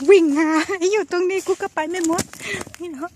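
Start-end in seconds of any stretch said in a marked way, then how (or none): 0.1-1.3 loud call while chasing; shout. Real, not acted. Shouting during the chase.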